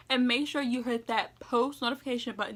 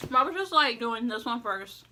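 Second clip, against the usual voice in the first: mouth full; 3 dB louder than usual. Real, not acted. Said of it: "Sorry for talking with my mouth open".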